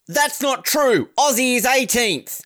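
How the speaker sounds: high, drawn-out mock correction; indignant replier. Follower correcting the medal tally, mock indignant. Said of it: "to which he replied".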